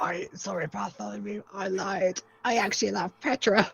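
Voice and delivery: lightly voiced Subaru; a hint of a sheepish Subaru confessing; mock confession.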